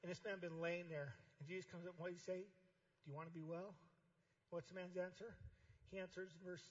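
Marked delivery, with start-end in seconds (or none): 2.5-3.7 slow, soft question; gentle question. Acted. Jesus asking the crippled man softly and slowly.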